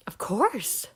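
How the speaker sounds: a hint of a grand lady; lightly posh. Girl answering her uncle, lightly grand lady voice. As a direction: say it like a gracious grown-up.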